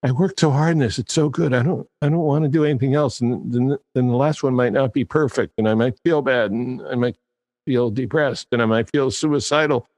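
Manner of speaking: high, fretful perfectionist voice, building to despair; a high, hammed-up anxious writer. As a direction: play the worrier whose fears spiral. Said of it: "The second one is perfectionism".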